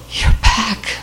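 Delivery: barely voiced, breathy imitation of a dying mother; very weak. Comatose mother waking to her daughter, whispering weakly. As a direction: let the words almost vanish, weak and airless. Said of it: "very, very weakly said".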